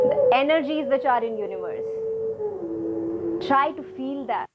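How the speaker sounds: measured meditation guidance with long pauses; guided meditation. Real, not acted. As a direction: lead the breath, leaving space between phrases. Leads breathing meditation. (guided breathing meditation)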